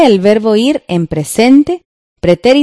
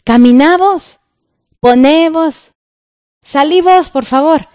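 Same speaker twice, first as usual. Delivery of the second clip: playful imperative demo, climbing higher each time; lively command examples; 8 semitones higher than usual. Shown as a demonstration. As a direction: act out the commands brightly. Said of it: "nos dan los ejemplos con el vos".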